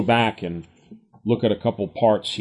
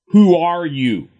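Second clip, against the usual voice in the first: raised, pointed demand; loud challenge; 6 semitones higher, 5 dB louder than usual. Acted. Crowd challenging Jesus, raised and loud. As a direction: throw the question back hard and high.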